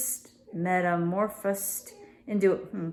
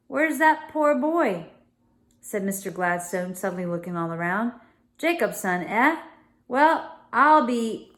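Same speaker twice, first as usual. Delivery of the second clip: raised, exclaiming gentleman; Mr Gladstone voice; 3 semitones higher than usual. Acted. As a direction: voice the startled father of the house.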